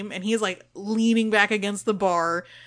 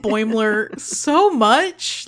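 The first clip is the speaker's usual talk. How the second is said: gushing love; 3 semitones higher, 6 dB louder, slower than usual. Real, not acted. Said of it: "whole heart love for Bradward".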